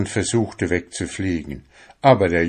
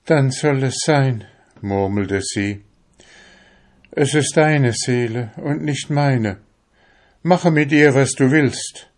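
high, raised resigned witch voice; witch yielding; 6 semitones higher, 4 dB louder than usual. Acted. Witch yields the secret to the fisherman. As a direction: give in with bitter force.

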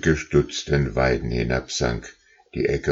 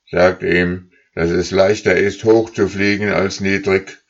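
leader goose calling; 3 semitones higher, 4 dB louder than usual. Acted. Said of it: "rief die Führergans".

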